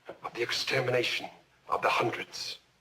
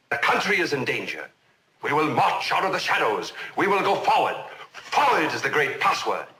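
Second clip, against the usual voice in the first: higher, falling emphatic political rhetoric; rousing oratory; 3 semitones higher, 3 dB louder than usual. Acted. Witness recalling the nation's excuses to the court, rousing oratory. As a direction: voice the confident slogans like a speech.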